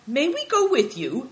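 high, polite request. Acted. Big Tiger asking to join the trip, polite. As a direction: ask courteously, voice lifted. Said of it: "asked Big Tiger politely".

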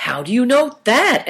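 high-pitched startled question. A narrator's reading. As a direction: ask as if caught off guard.

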